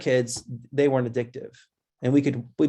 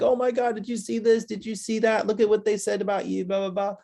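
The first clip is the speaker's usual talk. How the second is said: imitating excited gossip in a raised voice; higher-pitched mock busybody at school, running the questions together; gossiping schoolmates; 8 semitones higher than usual. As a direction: pass on the juicy news like a schoolkid. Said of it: "people are like".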